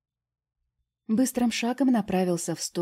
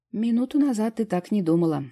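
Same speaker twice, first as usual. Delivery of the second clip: louder, higher coarse retort; rude; 5 semitones higher, 6 dB louder than usual. A narrator's reading. Vitalik jabbing at the fairy, rude retort. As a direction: snap back roughly. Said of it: "грубо сказал я".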